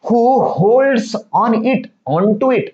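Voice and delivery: each English word read slowly and clearly to pupils; slow reading of the story. Shown as a demonstration. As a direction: read the line word by word for the class. Teacher reads story text slowly. (मुलांना सावकाश वाचून दाखवणे)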